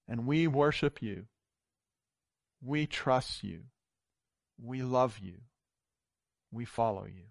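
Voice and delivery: measured, heartfelt praying voice; earnest prayer. Acted. Pastor leading the congregation in closing prayer, earnest.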